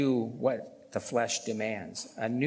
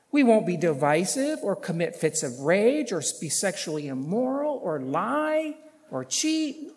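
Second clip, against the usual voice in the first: raised, insistent list from the pulpit; emphatic preaching; 7 semitones higher, 5 dB louder than usual. Real, not acted. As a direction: build the list high and forcefully. Preaches at full force.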